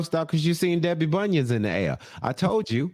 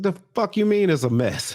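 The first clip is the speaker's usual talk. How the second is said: higher-pitched incredulous challenge; Tony's mock indignation; 5 semitones higher than usual. Tony challenging Debbie about the mess, mock indignant. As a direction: act out baffled indignation. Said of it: "And Tony's like".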